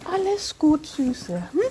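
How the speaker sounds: gentle soothing to a horse; calm and reassuring. Real, not acted. Calming horse, spoken then whispered.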